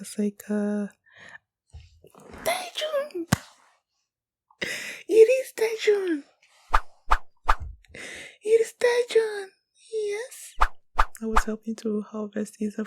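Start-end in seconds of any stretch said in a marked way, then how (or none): 2.4-3.3 high delighted cry of the name; excited shout. Real, not acted. Fan spotting a favorite character, high excited cry. 5.1-10.5 high, loud fan squeal; excited squeal. Real, not acted. Fan greeting a favorite character, squealing loud and high.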